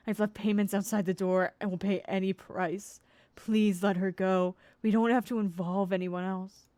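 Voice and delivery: loud desperate begging letter; pleading mother. Acted. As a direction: read it as a frantic mother. Reading mother's pleading letter aloud.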